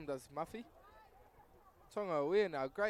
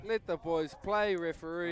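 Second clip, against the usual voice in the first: pleading with the referee; 5 dB louder than usual. Real, not acted. Commentator appeals to referee.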